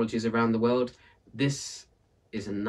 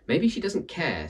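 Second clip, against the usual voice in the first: the speaker's voice; 8 semitones higher, 3 dB louder than usual. Acted. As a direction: drag it out, pitched up.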